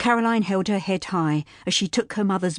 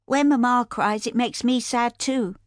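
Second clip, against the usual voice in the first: put-on sniffling boy; 6 semitones higher than usual. A narrator's reading. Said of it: "Jimmy said, sniffing".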